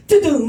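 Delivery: triumphant imitated chime; streaming start-up sound. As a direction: belt out the app's intro noise. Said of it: "come out again and say".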